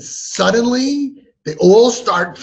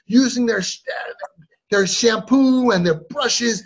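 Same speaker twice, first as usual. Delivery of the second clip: exasperated mock parental rant; hammed-up parent losing it; crazed parent; 3 semitones higher than usual. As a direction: pile up grievances, getting more worked up. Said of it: "And we become, like, crazy".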